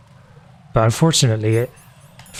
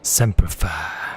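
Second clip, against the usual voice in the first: low, drawn-out echo of a game soldier; mock soldier impression; 7 semitones lower, 5 dB quieter, much slower than usual. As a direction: parrot the line very low and slow. Echoing the game character's line.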